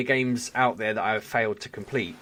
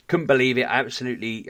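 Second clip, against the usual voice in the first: normal talking voice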